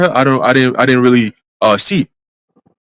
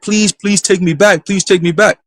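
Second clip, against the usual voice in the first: high, slow pleading; imitated begging; 6 semitones higher than usual. Ex at his feet in a dream, imitated begging. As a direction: draw out each please, acting desperate. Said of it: "she starts begging me".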